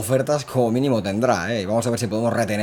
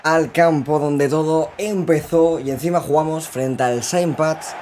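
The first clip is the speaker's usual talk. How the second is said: hyped announcer intro; 6 semitones higher, 3 dB louder, much slower than usual. Real, not acted. Hyped match intro to viewers.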